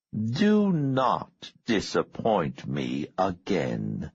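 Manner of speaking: slow, measured warning; stern boss. Acted. Boss warning Richard after orders, slow and stern. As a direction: spell out the warning word by word. Boss warns his subordinate.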